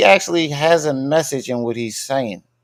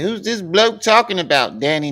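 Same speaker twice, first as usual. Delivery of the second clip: higher-pitched mock English accent; 6 semitones higher than usual. Reading a viewer's comment aloud in an English accent. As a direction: read it out in a put-on English accent. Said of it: "read that shit with an English accent".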